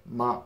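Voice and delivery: "ma" softly dropped, unstressed; just drop the jaw on a soft, lazy "ma"; lazily pronounced. Shown as a demonstration. Teacher showing how little you enunciate the particle, lazy soft "ma". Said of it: "pronounce it pretty lazily".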